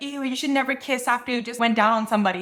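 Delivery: normal talking voice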